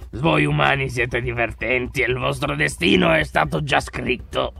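lightly voiced slow villain; a hint of slow menace; evil villain. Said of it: "Puoi fare la risata cattiva". (cattivo minaccioso appena accennato)

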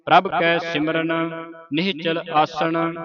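measured, level-toned Gurbani recitation; sustained monotone chant for learners to follow; scripture recitation. Shown as a demonstration. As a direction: recite evenly, holding the line endings.

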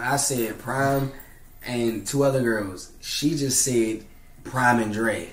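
slow, deliberate correction; slow and emphatic. Real, not acted. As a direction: spell it out slowly.

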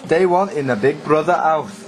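slow, failed attempt at a Geordie accent. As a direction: drawl it like a bad Geordie Big Brother narrator. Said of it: "I can't do a Geordie accent".

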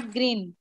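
green said as "grin", short vowel. Shown as a demonstration. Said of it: "not green".

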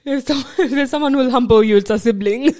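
ordinary talk, nothing marked

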